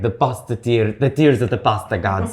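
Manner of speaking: lightly dramatic quote of a pasta queen; mock-grand, with a touch of drama. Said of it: "So dramatic".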